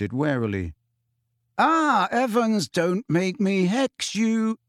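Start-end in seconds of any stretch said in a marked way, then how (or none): 1.6-4.6 slow, higher, earnest plea. A narrator's reading. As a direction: plead with her, drawing it out. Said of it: "said James earnestly".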